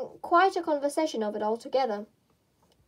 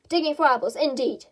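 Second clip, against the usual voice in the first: louder, scornful rabbit; angry scoff; 4 dB louder than usual. Acted. Rabbit scolding Pat for his excuse, angry scoff. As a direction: sneer at the excuse. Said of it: "said the rabbit angrily".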